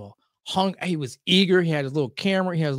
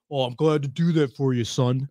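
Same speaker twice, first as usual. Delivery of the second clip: condescending; 6 semitones lower than usual. Retold or imitated.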